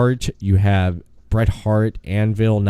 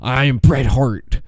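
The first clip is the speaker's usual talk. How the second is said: lightly voiced wrestler impression; deliberate, measured declaration as a wrestler; Bret Hart. Co-host doing his best wrestler impersonation, lightly put on. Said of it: "my best Bret Hart impersonation".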